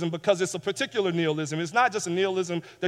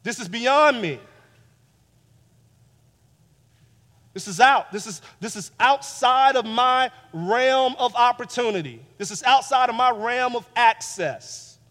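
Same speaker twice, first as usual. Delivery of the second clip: the invalid man's lament, raised and louder; despairing protest; 5 semitones higher, 5 dB louder than usual. Acted. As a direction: cry out that it is all beyond reach. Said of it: "how he responds is with these words".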